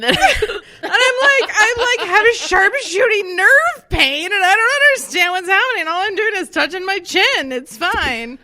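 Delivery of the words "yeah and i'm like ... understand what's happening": laughing while telling it. Real, not acted. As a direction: talk through giggles. Laughing retelling nerve pain.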